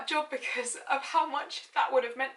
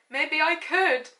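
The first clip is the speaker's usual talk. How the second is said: slow dreamy question; 4 semitones higher, 4 dB louder, much slower than usual. Shown as a demonstration. Rereads the question slowly.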